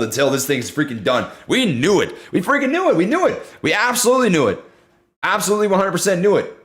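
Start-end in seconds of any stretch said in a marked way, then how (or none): 1.5-6.5 excited. Real, not acted. Gloating that the community called it.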